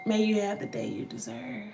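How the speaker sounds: whispered, pointed wish. Real, not acted. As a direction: breathe the words as a whisper. Answers the commenter.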